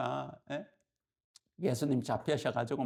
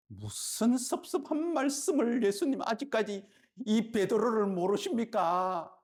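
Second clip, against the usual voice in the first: hurt protest; 7 semitones higher than usual. Retold or imitated. Peter protests to Jesus, high and hurt. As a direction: sound offended that Jesus doubts you.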